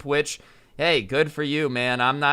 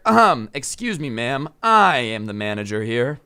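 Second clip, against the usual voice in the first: lightly played self-important manager; pretend manager; 2 semitones lower than usual. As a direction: step in with mock authority. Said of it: "I'll just roleplay as a manager".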